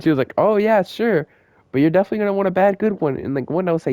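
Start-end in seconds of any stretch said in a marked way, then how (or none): 0.4-3.2 higher, fast mock-eager teacher voice. Mocking the teacher who played along with a kidnapping joke, higher and fast. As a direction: rattle it off like a too-keen teacher.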